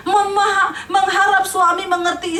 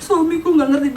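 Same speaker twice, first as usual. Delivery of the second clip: whiny mock-sobbing wife; hammed-up tearful complaint; mock crying. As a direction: act out a sulking wife crying. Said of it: "Baper nangis".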